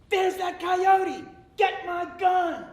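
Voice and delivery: slow, high bellowed alarm; farmer shouting. Acted. Farmer spots the coyote on his land, slow high shout. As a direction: yell it out across the field. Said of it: "and he says".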